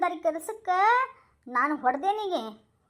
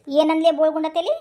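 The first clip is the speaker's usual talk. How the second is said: angry retort; 2 semitones lower, 5 dB louder than usual. Acted. Woman snaps back at thief.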